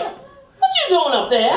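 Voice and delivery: high, slow put-on boss voice; mock boss calling up, high and slow; imitating the boss.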